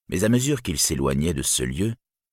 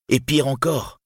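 raised, indignant echo; accusing; 8 semitones higher than usual. A narrator's reading. Turin repeating the claim to Brandir, accusing. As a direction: hurl the quoted words back.

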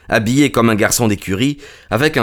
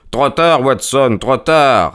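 raised, urgent cry of dismay; cried out; 5 semitones higher, slower than usual. A narrator's reading. Holmes crying out to Watson in dismay. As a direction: cry it out too late, pitched up. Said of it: "s'écria Holmes".

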